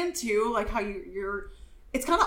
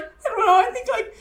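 high, loud mock weepy babble; imitated tearful gushing; 9 semitones higher, 6 dB louder, faster than usual. Friend overwhelmed before the show, hammed-up weepy gushing. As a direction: rush it out in a mock sob. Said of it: "she has tears in her eyes".

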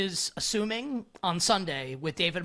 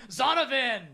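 raised-pitch mock victory call; playful celebratory yell; 6 semitones higher than usual. Bettor trying out a yell for a winning bet, playful shout. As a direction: call the player's name like a win. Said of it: "What if I was just like".

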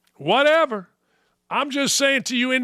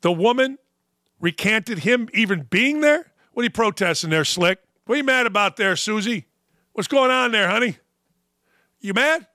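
ordinary talk, nothing marked

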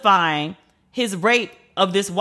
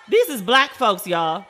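laughing. Real, not acted. Laughs at the video.

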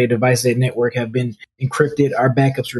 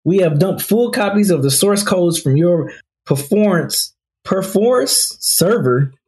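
shaky ransom note reading; 2 semitones higher than usual. Acted. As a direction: read it like a hammy villain letter.

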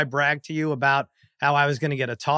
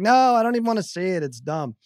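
retold refusal. Wife refusing, voiced by husband.

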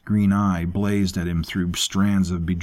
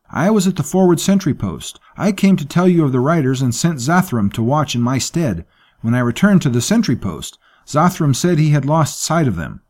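frightened servant, much higher and louder; alarmed servant Safik; 6 semitones higher, 6 dB louder than usual. Acted. Servant tells his master the riders vanished, high and alarmed. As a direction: insist the riders vanished, rattled.

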